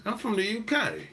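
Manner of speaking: put-on playful British accent on "I'm from the U K"; mock British accent. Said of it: "I like the accents".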